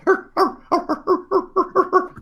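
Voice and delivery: high, rapid animal yapping; imitated excited dog noises. Game master voices dogs or coyotes in the dark, excited yapping. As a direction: imitate a pack of struggling dogs. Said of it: "you also hear some little".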